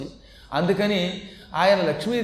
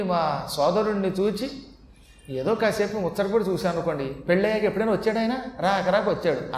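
teasing. Acted. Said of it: "కాస్త లక్ష్మీది కూడా హాస్యం ఆడి".

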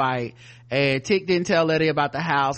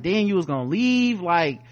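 higher-pitched retold telling-off, racing along; indignant mock rant, only mildly raised; loud scolding; 5 semitones higher, faster than usual. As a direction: imitate someone arguing too loud in a library. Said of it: "She talking about all this shit loud".

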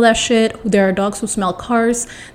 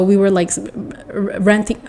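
real stammer on the word's start; halting, stuttered false starts; stumbling over words; 3 dB quieter than usual. Real, not acted. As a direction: trip and restart before getting the word out. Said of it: "Why am I stumbling?".

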